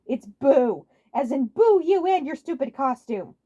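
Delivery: loud, slow, sneering boo; mocking jeer. Wario jeering at Waluigi's costume, loud slow taunt. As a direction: jeer him down.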